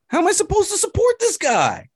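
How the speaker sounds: loud, high, pleading cry of disbelief; exasperated shout. Real, not acted. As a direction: throw the question up in outrage. Exasperated rant about a fallen idol.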